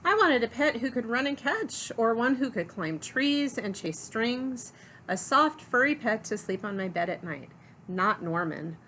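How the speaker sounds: lively, expressive picture-book narration; story read-aloud. A narrator's reading. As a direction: read it to children, punching key words.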